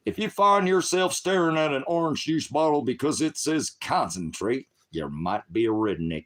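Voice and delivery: high, loud joke-reading voice; joke-telling voice. Retold or imitated. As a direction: deliver the redneck punchline with a put-on voice. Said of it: "how about".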